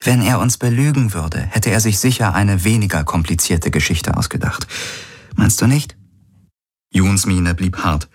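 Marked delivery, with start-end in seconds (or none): 0.0-6.0 lightly raised voice, gently challenging; lightly voiced Ylana.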